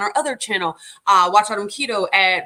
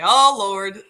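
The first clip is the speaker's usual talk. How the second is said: imitating husband; 6 dB louder than usual. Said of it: "I hear my husband say".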